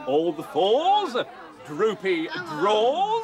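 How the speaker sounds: slow bingo call; bingo caller. Pretend. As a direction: drag out the rhyme slowly. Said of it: "if I could have a go at calling".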